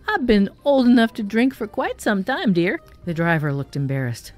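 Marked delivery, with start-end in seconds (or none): 0.1-2.8 high quavering ancient voice, teasing; quavering old lady. Acted. Ancient lady teasing the young officer, high and quavering. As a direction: keep the old woman's quaver. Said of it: "quavered the ancient one".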